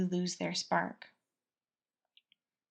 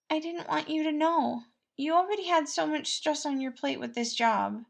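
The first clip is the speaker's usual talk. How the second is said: higher gentle confession; Patton, sheepish; 8 semitones higher, 3 dB louder than usual. Acted. Patton voiced.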